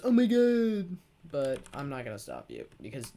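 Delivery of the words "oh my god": high loud gasped oh my god; shocked prude. Retold or imitated. Busybody shocked at vaping, high mock gasp. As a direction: play the scandalized busybody. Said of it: "one of those people who goes".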